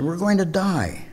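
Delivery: a hammed-up desperate cry; mock panic. A narrator's reading. First castaway begging the calm one to understand, mock panic.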